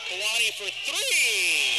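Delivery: excited call, voice breaking; voice cracking. Real, not acted. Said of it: "Made my voice crack".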